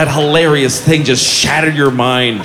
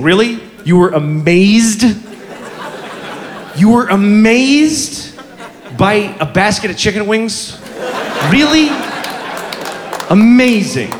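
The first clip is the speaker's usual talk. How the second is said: mock disbelief; 3 semitones higher than usual. Real, not acted. Incredulous mocking the dude.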